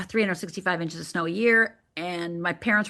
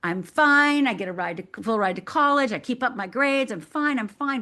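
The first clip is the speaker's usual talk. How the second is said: lightly acted "I'm fine" front, higher pitch; insisting all is well, pitched up; outwardly fine; 4 semitones higher than usual. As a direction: put on a mild show of being fine. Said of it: "the outside me and the inside me".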